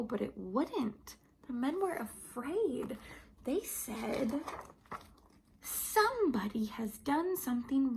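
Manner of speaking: put-on lively, animated storybook voice for little kids; reading to children. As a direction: tell it like a Sunday school story. Reads Bible story to children.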